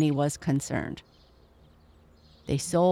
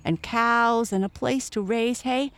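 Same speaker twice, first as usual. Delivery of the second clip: higher and higher with excitement; excited announcement; 6 semitones higher than usual. Acted. Mother tells her son of the farm, excited announcement. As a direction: pile up the good news, climbing to a high finish.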